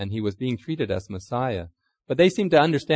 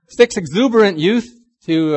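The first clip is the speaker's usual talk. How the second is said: mock polite request; 8 semitones higher, 10 dB louder than usual. Asking to borrow car.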